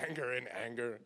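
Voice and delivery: said through a laugh; amused at own slip. Real, not acted. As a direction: laugh as you repeat it.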